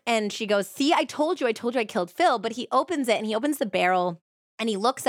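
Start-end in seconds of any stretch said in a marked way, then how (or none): 0.7-2.4 a hint of a slurring drunk woman, higher at first; man recalls her drunk insistence, lightly voiced and higher; mock drunk confession. Drunk Bryn confessing to Ron.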